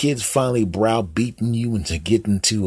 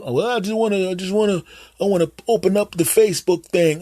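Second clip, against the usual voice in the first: put-on high, hesitant old dad voice; clueless dad; 11 semitones higher than usual. Dad calling his son Jim for phone help, high and unsure. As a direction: play the fumbling father asking for help. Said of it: "You go up to them".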